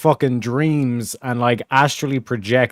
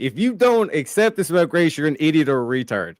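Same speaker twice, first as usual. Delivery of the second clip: mocking voice; 5 semitones higher than usual. Mocking the debater.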